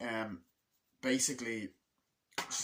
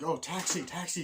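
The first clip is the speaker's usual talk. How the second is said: raised-pitch imitation of hailing a cab; mock taxi hail; 7 semitones higher, 3 dB louder than usual. Character hails a taxi in retelling, mock calling out. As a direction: call for a cab, half in earnest.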